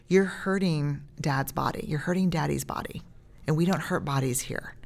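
put-on soft, steady teaching tone to a toddler; quiet firm talk to a small child; calm parent voice. Shown as a demonstration. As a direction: gently explain the rule. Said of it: "it's like".

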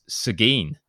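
slow, careful SEH-geen the local way; "Seguin" drawn out, stress on the first syllable; Texan pronunciation. Shown as a demonstration. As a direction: say "Seguin" slowly like a native Texan. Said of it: "Boys, native Texan here".

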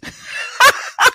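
high unvoiced burst of laughter; helpless wheezy laugh; airy laughing fit; breathless laugh. Real, not acted. Laughs at own remark.

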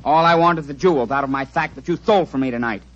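lisping villain. Acted. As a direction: threaten politely through a lisp. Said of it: "Why do you talk so funny? You got a cold like me?".

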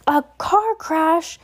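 high, slow furious roar. A narrator's reading. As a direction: roar it in outrage. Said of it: "Hagrid roared".

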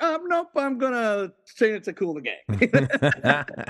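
imitating Jules. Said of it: "Jules is like".

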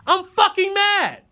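slow, high, loud shout of mad; declaring real anger to viewers. Real, not acted. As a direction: bellow it out. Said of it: "I, I'm mad".

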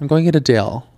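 "deal" with a laxer vowel, toward dale; Utah dialect. Shown as a demonstration. Woman proving she says it, dialect "deal". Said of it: "saying Dell instead of deal".

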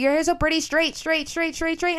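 high, gushing voice repeating straight; mocking compliment. Classmates gushing over her straight hair, high and mocking. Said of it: "everybody would always be like".

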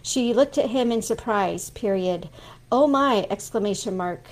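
dictating dialogue with quote marks spoken. Shown as a demonstration. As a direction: dictate a scene, calling each mark. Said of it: "So that would be like".

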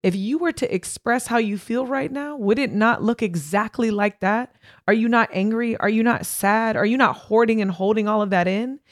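therapist's insistent questioning. Retold or imitated. Therapist confronting her client about bottled-up feelings, insistent. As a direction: press each question home as the therapist.

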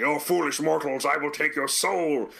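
hint of a booming villain taunt. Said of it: "a giant of the Emperor explodes".

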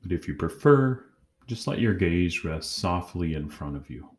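calm, measured guided-meditation voice with long pauses; unhurried meditation leader, pausing between phrases. Acted. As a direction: guide them gently inward, leaving long silences.

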